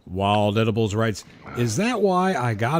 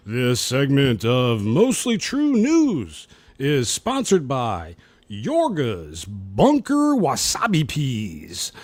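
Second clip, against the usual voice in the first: slow announcer sponsor read; slower than usual. Acted. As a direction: read it like a radio sponsor spot.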